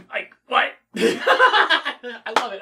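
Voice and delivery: laughing out the words; delighted laugh through the line; amused laughter. Real, not acted. Laughing at the scene.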